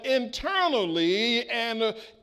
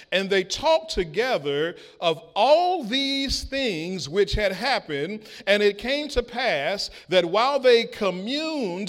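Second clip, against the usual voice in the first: scripture reading. Acted. Preacher reading Luke to the congregation, solemn. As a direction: read the verses with weight.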